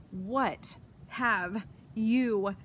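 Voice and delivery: dragged out very slowly between coughs; coughed out. Acted. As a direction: choke the words out. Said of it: "he coughed".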